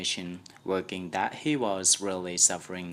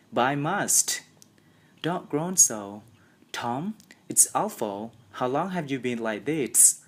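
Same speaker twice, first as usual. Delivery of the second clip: put-on higher, upset boy; alarmed; 5 semitones higher than usual. A narrator's reading. Sid upset by Tom's groaning. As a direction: plead in alarm.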